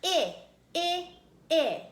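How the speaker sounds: I said as short "ih" in itch, loud; short I sound. Shown as a demonstration. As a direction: punch out I like the start of itch. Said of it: "And when I say I".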